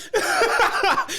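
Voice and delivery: squealing laugh; high laugh. Real, not acted. Laughing at joke.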